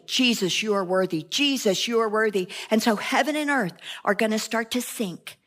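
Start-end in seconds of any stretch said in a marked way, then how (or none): 0.0-2.5 heaven's company softly adoring; soft worship. Shown as a demonstration. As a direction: lower and softer, reverent adoration. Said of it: "who are also saying".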